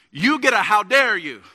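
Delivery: imitating a four-year-old's indignant English accent; little English accent. Father imitating his offended four-year-old son, little English accent. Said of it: "he says it in this little English accent".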